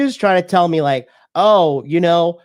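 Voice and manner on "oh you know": higher, slowed, mock whiny nagging voice; a mocking impression of a girl whining about the gingerbread house; whining girlfriend. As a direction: imitate her fussy instructions, whining. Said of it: "And she started whining".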